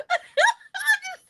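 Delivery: high giggly laugh through words. Real, not acted. Laughing after accent remark.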